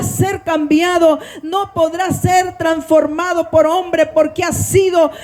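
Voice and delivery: continuous public prayer in long, rolling phrases; fervent prayer. Real, not acted. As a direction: pray earnestly to God for the listeners, building in intensity. Leads the congregation in prayer.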